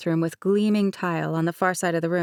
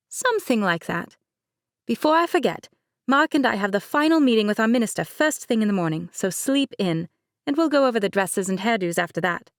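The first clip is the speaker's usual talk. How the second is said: light higher-pitched bride, laughing it off; Mercedes voice; 4 semitones higher than usual. Acted. Bride Mercedes teasing her cousin, higher light voice. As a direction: play the bride breezily.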